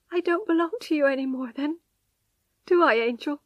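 a lost, rushed plea; helplessly. Acted. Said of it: "she asked helplessly".

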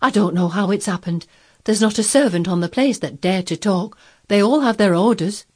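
mildly agitated servant making excuses; lightly voiced, anxious housekeeper; flustered housekeeper. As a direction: protest your innocence to the master. Voices flustered Mrs Medlock.

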